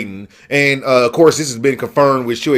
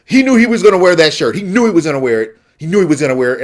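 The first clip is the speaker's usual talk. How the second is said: mad. Real, not acted. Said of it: "I'm mad about it".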